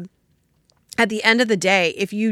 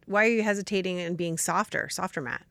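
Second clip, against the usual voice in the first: softer; 5 dB quieter than usual. Real, not acted. Asks about softness, softens voice.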